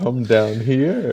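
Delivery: creepy slow voice. Acted. Creepy clown quote beckoning.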